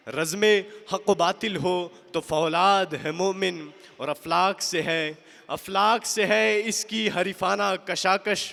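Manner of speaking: emphatic, measured verse declamation; ringing Urdu poem recital; poetry recitation. Acted. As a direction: declaim each couplet, lifting the repeated line.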